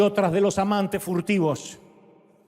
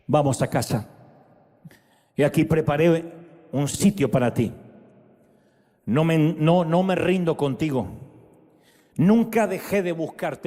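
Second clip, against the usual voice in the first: lower, gentle fatherly words; tender voice of God; 4 semitones lower than usual. Acted. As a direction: speak as a loving father calling home.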